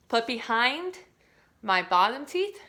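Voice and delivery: usual speaking voice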